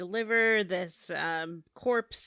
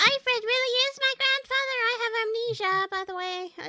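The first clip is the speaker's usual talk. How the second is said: very high, fast cartoon character voice; Patty impression; faster than usual. Podcaster mocking game character Patty's claim, high squeaky voice. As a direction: rattle it off in a squeaky mock falsetto. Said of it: "And Patty's like".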